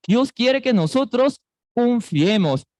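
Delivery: normal talking voice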